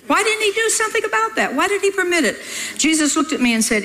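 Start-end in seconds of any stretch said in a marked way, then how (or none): 0.1-2.4 my own thought. Retold or imitated. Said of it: "Jesus knew what I was thinking".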